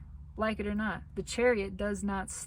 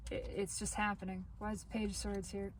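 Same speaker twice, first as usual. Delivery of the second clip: hoarse, fading voice; losing voice; 6 dB quieter, faster than usual. Real, not acted. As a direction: voice giving out, hoarse. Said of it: "I'm losing my voice".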